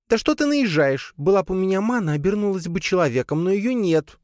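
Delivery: high spider voice, mildly indignant; squeaky spider pushing back. Acted. (высоким голоском, возмущённо)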